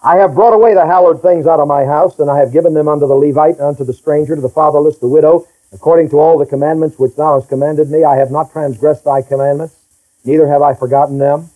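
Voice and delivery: steady, low-pitched recital of scripture; scripture reading. Acted. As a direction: read the verses evenly, in one continuous low run. Reads scripture aloud to congregation.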